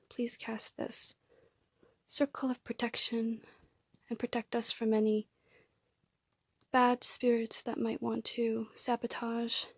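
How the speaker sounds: a murmured protection prayer over the room; whispered invocation. Acted. Invocation resumed after pet interruption.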